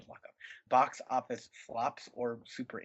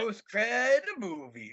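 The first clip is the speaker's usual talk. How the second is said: announcer voice; 8 semitones higher, much slower than usual. Acted. Echoing show name slowly.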